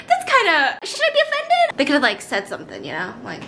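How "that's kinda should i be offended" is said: offended. Retold or imitated. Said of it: "I was like".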